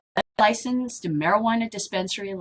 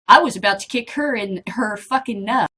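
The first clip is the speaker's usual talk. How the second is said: louder, emphatic read of a swaggering officer; acted bravado quote; 3 semitones higher, 7 dB louder than usual. Vlogger quoting a female officer's boast, loud and punchy.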